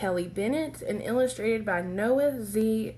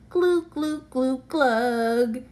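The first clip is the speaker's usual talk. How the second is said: fish glugging; 3 semitones higher, 5 dB louder, slower than usual. Acted. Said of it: "he mouths".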